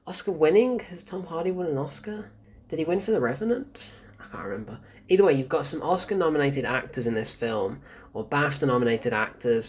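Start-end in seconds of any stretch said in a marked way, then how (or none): 4.2-4.8 whispering. Real, not acted. Muttered aside to self.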